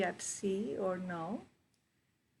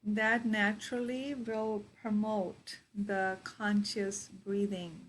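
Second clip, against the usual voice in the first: guided meditation. Real, not acted. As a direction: guide them into their breath, unhurried.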